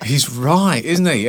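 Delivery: mock astonishment, voice lifting; dawning realisation. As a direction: react as if it just hit you. Acting out his realisation in audience.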